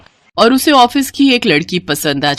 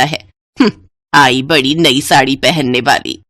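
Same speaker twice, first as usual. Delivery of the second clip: scornful mother-in-law. Acted. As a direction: belittle her with contempt. Mother-in-law scorns elder bride.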